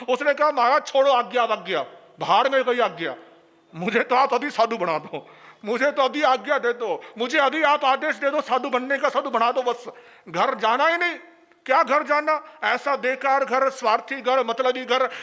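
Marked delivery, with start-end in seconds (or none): 0.5-11.2 insistent plea. Retold or imitated. Man brushing off permission, insisting.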